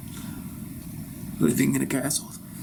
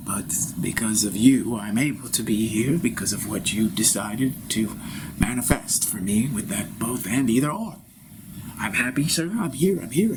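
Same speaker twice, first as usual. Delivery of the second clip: translator voice. Acted. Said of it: "my translator".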